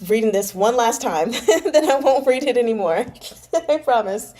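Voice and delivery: laughing apology before a retake. Real, not acted. Reader laughs at herself before rereading, laughing. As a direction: giggle through the promise. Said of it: "laughing retake".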